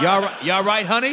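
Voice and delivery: high, loud mock cooing; mock sweet. A teammate mocking a tough prop's sugary concern, high and loud. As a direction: coo it at him like a doting nanny. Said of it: "he said".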